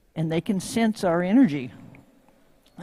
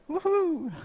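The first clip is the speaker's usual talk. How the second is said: cheer; 10 semitones higher than usual. Real, not acted. Cheering a cold call.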